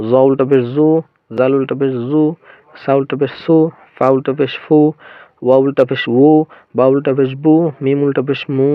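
letter-by-letter chant, each final উ held long; madd drill. Shown as a demonstration. Teacher drills ulta pesh for learners, long final উ sounds. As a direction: draw out the last "oo" after every পেশ. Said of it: "উল্টো পেশের মাধ্যমে মদের উচ্চারণ হবে".

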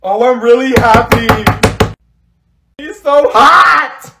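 loud, high lovestruck shout; over-the-top gushing. Acted. Girl raving about her new boyfriend, gushing shout. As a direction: build to a drawn-out squeal.

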